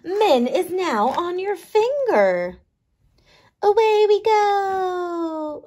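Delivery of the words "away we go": high, slow little creature voice; squeaky microbe cheering off; tiny microbe voice. Acted. Min sets off.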